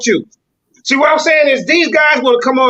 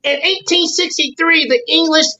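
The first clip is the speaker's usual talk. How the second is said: mock proper speech; 3 semitones higher than usual. Host mocking the caller's way of talking with a lightly stiff scholarly read. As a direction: parody a stiff, bookish historian reading a quote. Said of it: "I don't talk like that, bro".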